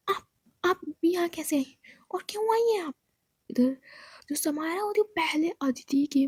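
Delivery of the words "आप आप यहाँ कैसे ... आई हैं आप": startled. Acted. Startled girl confronts intruder.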